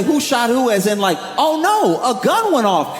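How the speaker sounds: high, worried question as if a gun went off; alarmed, not amused. Retold or imitated. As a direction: sound truly frightened for a moment. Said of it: "He didn't say".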